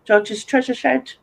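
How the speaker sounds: GEORGE'S TREASURE SHED said slowly and carefully; careful tongue twister. Shown as a demonstration. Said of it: "a bit of a tongue twister".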